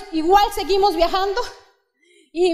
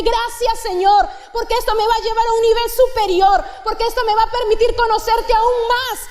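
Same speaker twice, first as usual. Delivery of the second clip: model prayer; 4 semitones higher than usual. Pretend.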